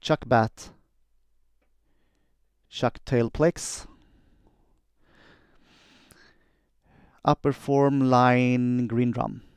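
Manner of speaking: slow, deliberate spoken computer commands. Shown as a demonstration. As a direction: say each command crisply for the machine. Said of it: "quick demo of how I do dictation".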